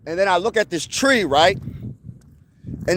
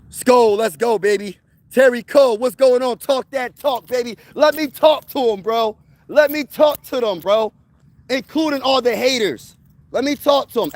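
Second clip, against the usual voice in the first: hype shoutout; 3 semitones higher than usual. Real, not acted. Hyped shoutout to a friend.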